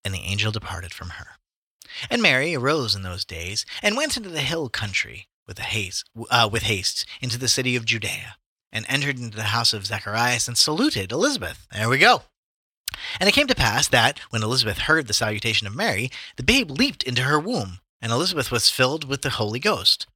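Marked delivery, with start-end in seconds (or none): 0.0-11.7 measured, declamatory Bible reading; scripture reading. A narrator's reading. Reads scripture aloud. 13.2-20.1 measured, declamatory Bible reading; scripture reading. A narrator's reading. Reads scripture aloud.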